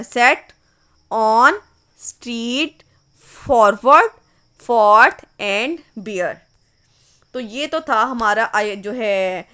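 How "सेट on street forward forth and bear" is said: each highlighted word called out slowly and loudly; stressed words read out. Shown as a demonstration. Teacher reading the stressed words of the last line, slow and loud. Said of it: "जो highlighted words हैं".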